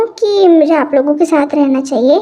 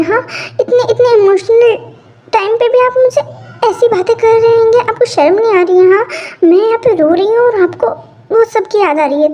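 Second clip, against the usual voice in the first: indignant scolding; 5 semitones higher than usual. Acted. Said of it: "इतना गुस्सा क्यों कर रही है".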